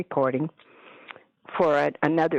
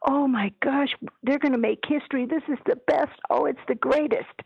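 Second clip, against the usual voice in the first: high-pitched chorus of praise; gushing; 8 semitones higher than usual. Retold or imitated. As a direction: gush like an overexcited team, pitched high. Retelling team's gushing over recording.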